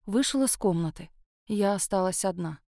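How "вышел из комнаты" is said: ordinary delivery, nothing marked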